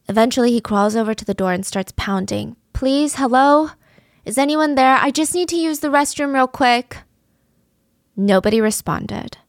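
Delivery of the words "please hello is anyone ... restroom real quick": calling out. Retold or imitated. Pounding on locked door calling out.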